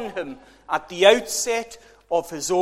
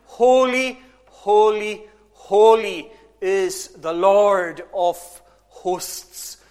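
raised preacher's voice, each holy set apart; louder, measured acclamation, easing in pitch; crying out in praise; 4 dB louder, slower than usual. Retold or imitated. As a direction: proclaim it like a mild cry of praise. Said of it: "they were crying out".

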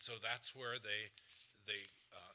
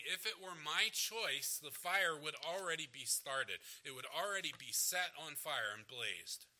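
higher, louder fervent paraphrase; impassioned speaking for someone else; eager insistence; 4 semitones higher, 5 dB louder than usual. Acted. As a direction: press the wish home with force. Preacher paraphrases Jesus' eager wish.

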